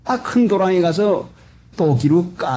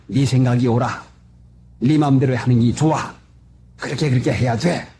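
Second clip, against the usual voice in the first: whispering devil; 5 semitones lower than usual. Retold or imitated. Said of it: "마귀는 우리 주위에 가만히 숨어가지고".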